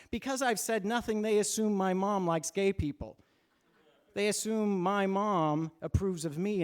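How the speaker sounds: horrified realization. Retold or imitated. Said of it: "I have this horrifying revelation".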